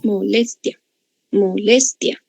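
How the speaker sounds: "Molestia" in three beats, mo-LES-tia; syllable by syllable. Shown as a demonstration. Teacher counting three syllables, "Molestia" said mo-LES-tia. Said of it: "Tres sílabas".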